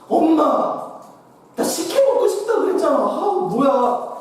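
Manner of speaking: high, whiny spoiled daughter; whiny sister-in-law. Retold or imitated. Sister-in-law whining to her mother for sikhye, high and whiny. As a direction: whine like a pampered young sister-in-law.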